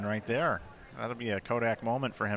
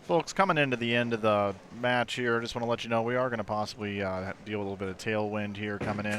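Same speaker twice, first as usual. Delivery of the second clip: airplane pilot voice. Pretend. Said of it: "or airplane pilot voice".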